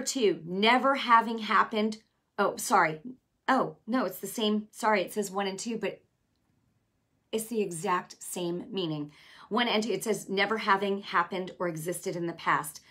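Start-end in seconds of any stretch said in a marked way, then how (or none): none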